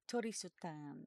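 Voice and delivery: Torisutan in soft Japanese syllables; Japanese-style Tristan. Shown as a demonstration. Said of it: "how would you say Tristan".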